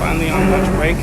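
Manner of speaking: excited. Real, not acted. Relieved at lunch break.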